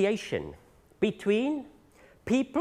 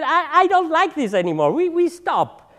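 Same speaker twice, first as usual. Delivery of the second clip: raised, louder, fed up; higher and louder, a retold "enough"; mock exasperated outburst; 7 semitones higher, 5 dB louder than usual. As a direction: retell it like you're done with the whole fight. Retold ending an 18-year fight.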